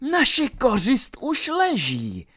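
villain gloating over the fallen knight; gleeful exclaim. Acted. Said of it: "zvolal Petr nadšeně".

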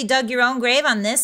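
put-on drawling Valley Girl agreement. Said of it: "five minutes of Valley Girl".

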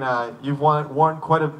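cold, stumbling words; shivering. Real, not acted. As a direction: speak through chattering cold. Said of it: "I can't, uh, speak in the cold right now".

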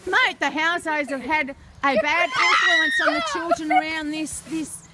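hammed-up reporter scolding about the housos; mock outrage. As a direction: rant it like a playacting news reporter.

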